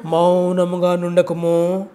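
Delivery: slow, humble plea to God, a touch of mock beating the chest; tax collector pleading prayer. Penitent tax collector begs God for mercy, slow humble plea. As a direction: beg slowly, lowering yourself. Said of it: "రొమ్ము కొట్టుకుంటూ".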